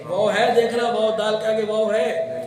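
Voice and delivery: teacher pressing the point to students; emphatic teacher. Real, not acted. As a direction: make them notice the letter. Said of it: "teacher emphasising the letter".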